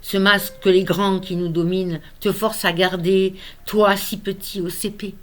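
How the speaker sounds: measured poem reading with long pauses; unhurried poetic delivery; poem recitation. Acted. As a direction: recite it line by line, leaving space. Reads own poem aloud.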